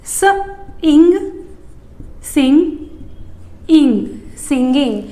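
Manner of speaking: "स, इंग" said apart, then built into "सिंगिंग"; sound blending game. Shown as a demonstration. Teacher making blending a game for kids. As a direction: build "सिंगिंग" piece by piece. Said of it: "game के जैसा बन जाता है".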